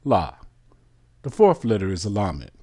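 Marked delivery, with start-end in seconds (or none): 0.0-0.3 La said alone as a short open syllable; syllable sounded out. Shown as a demonstration. Teacher building the word for the class, one syllable sounded out. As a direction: give La as one clean syllable. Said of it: "How is it pronounced?".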